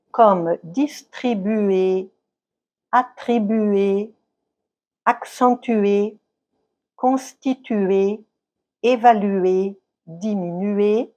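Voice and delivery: distribuer, attribuer, accentuer said slowly, leaning on the U ending; slow teacher's demo of each verb; stress on the U. Shown as a demonstration. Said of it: "l'accent tonique tombe sur le U". (accent sur le U, diction lente de professeur)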